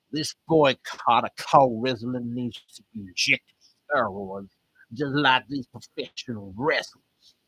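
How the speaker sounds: slow Texas preacher drawl; attempted Texas accent. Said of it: "a Texas accent".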